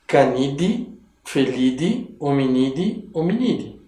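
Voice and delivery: Canide, Felide, Hominide, each ending in "dee"; pronúncia latina. Shown as a demonstration. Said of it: "em latim a gente pronuncia D". (Canide, Felide, Hominide com final "di", à latina)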